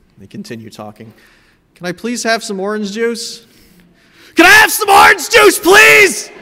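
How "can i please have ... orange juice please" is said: put-on shrill, very loud, high child's shout, rising. Retelling a family tape of a child asking for juice: imitating own childhood yelling. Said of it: "you don't have to yell".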